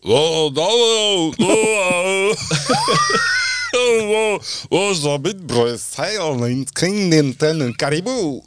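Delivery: a hint of a Belgian Quebecois accent, laughing, slow. Asked by the host for a Belgian Quebecois mix, hinted at. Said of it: "un belge québécois".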